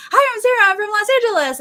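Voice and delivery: high, loud, gushing hello; eager contestant. Retold or imitated. Contestant gushing to the producer, high and loud. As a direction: squeal your intro like a starstruck fan. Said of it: "And you're like".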